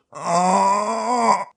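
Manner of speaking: mock Dublin accent, like being sick into a toilet; Dublin death gargle. Shown as a demonstration. Guide sums up Dublin accent in one pained sound, death gargle. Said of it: "somebody getting sick into a toilet".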